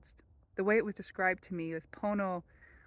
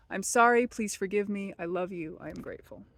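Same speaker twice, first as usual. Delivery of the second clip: prayer fading to hush; 3 dB louder than usual. Shown as a demonstration. Reciting the prayer.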